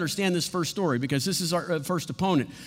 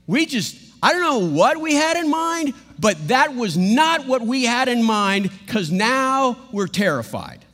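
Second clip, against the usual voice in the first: higher and louder, rattled; terrified disbelief; 3 semitones higher, 4 dB louder than usual. Acted. Disciples after the calm, rattled and louder. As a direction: babble in shocked fear. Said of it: "And they think".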